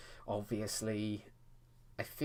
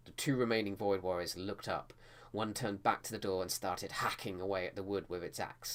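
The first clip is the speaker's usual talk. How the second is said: reading aloud. Shown as a demonstration. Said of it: "I probably would still read it".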